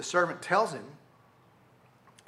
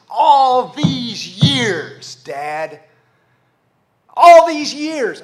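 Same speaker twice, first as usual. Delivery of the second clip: loud, drawn-out angry outburst; 5 semitones higher, 13 dB louder, much slower than usual. Acted. Resentful son confronting his father, loud and angry. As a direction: hurl it at Dad, stretching the words. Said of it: "I want you to hear anger in this".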